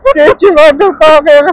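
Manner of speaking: high, loud cursing through laughter; real cackling laugh breaking into the words; laughing hard. Real, not acted. Rider to companion on a sketchy road, laughing hard.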